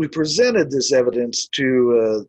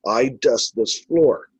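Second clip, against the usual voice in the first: slow retold order, lightly Irish; a hint of Irish command, drawn out; Irish-accented order; slower than usual. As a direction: repeat the Irishman's order deliberately. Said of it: "as if he's giving me an order".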